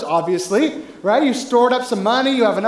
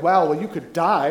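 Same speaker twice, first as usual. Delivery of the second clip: laughing mock reply; 5 semitones lower than usual. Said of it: "You're like".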